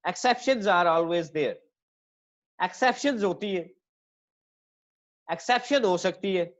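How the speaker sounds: very slow, drawn-out teacher voice; slow emphasis. Shown as a demonstration. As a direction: stretch each word for the class. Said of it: "जैसे पहले मैंने कहा".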